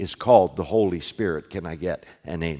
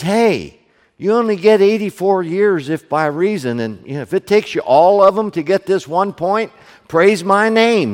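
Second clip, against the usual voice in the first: voicing God, loud and raised; God's voice, loud; 10 semitones higher, 11 dB louder than usual.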